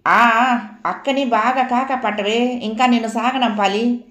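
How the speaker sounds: a sing-song sneer at her sister; mocking tease. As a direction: needle her with sneering mockery. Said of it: "అందులో హాస్యం కన్నా అపహాస్యం".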